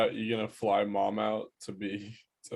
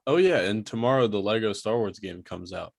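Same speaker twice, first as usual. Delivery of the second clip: louder, eager burst of news; excited; 4 dB louder than usual. Real, not acted. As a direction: blurt it out with real excitement. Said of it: "I'm so fucking excited".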